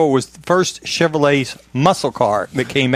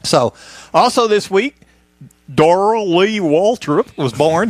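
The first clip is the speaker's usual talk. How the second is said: slow exaggerated Southern drawl; hammy Southern redneck accent; 3 semitones higher, slower than usual. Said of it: "I was trying to say it in my best Southern redneck voice".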